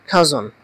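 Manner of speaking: "খাজন" as kha-zon, with falling tune; pronunciation demo. Shown as a demonstration. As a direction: model "খাজন" on its own after a pause. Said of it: "এটার উচ্চারণটা হবে". ("খাজন" খা-জন উচ্চারণে)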